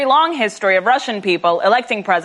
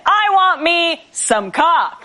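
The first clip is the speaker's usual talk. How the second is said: campaign slogan; 6 semitones higher, much slower than usual. Acted. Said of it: "the slogan".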